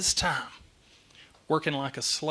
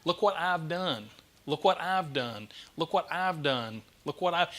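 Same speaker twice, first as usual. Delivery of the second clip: aggrieved repetition; 2 semitones higher than usual. Acted. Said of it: "starts reminding the father".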